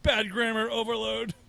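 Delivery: slow mechanical robot voice; a hint of a malfunctioning robot. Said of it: "the robot".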